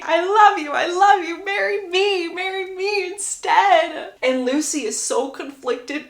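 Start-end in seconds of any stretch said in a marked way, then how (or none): 0.0-4.1 high, insistent repeated plea; hammed-up lovesick begging, last words drawn out; pleading suitor. Suitor begging the bride at the altar, hammed-up desperate pleading. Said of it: "He's repeating".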